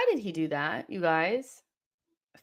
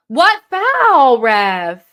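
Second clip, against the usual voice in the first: angry shout; 3 semitones higher, 15 dB louder, much slower than usual. Real, not acted. Yelling at the referee.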